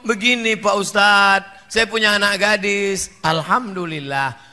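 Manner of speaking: starts steady, builds to a high, loud wail; distraught mother. Acted. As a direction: lament rising until it breaks into a cry. Distraught mother tells preacher.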